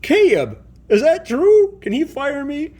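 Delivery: panicked plea. Acted. Fired toy panics to Caleb.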